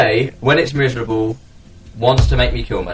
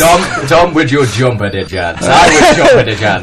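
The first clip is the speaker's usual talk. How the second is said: a hammed-up silly voice, louder on the end; mock silly voice; 3 dB louder than usual. Friends teasing Vin in a goofy put-on voice. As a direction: play the pun in a goofy put-on voice.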